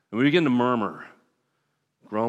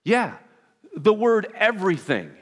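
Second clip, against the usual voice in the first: group member answering; 8 semitones higher, 6 dB louder than usual. Retold or imitated.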